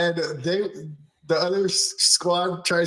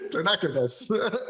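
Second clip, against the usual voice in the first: laughing; 3 semitones higher than usual. Retold or imitated. Cracking up at the quote.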